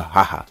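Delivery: short, loud, spoken "ha ha"; imitated laugh. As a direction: act out a brief laugh. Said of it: "I actually, like".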